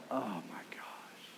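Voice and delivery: breathless stunned whisper of the disciples; awed whisper. Retold or imitated. Disciples seeing Jesus, whispering in stunned awe. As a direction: gasp it out in hushed awe.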